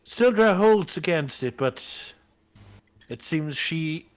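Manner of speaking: lively play-by-play commentary; sports commentary. Acted. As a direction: call the match like a sportscaster. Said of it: "I love your commentary".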